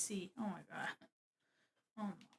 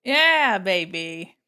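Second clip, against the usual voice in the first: louder gleeful whoop; excited cheer; 3 semitones lower, 10 dB louder, much slower than usual. Real, not acted. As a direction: celebrate getting it right. Cheering the model into place.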